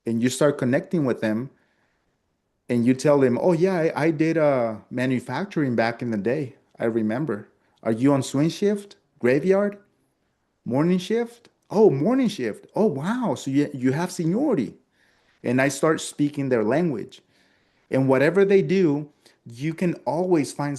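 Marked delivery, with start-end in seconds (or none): 3.4-14.8 lively, pitched-up chatter; eager rapport. Shown as a demonstration. Salesman bonding with a client over shift work, lively. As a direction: bond over shared factory work.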